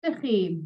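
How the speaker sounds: a quick Sut dych chi? with sut like sit and a falling end; Welsh greeting model. Shown as a demonstration. Teacher giving learners a last Sut dych chi? to repeat. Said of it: "that was the last one".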